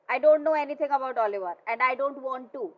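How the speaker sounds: a loud, slowed angry refusal; mock shout. Mother shouting at the men, a hammed-up yell. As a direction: throw the words out as a half-acted shout. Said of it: "चिल्ला के बोलती है बेटा".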